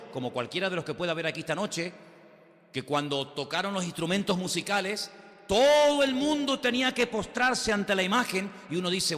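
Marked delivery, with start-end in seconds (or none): 5.5-8.5 much higher and louder; emphatic preaching. Real, not acted. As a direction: ring it out as a command.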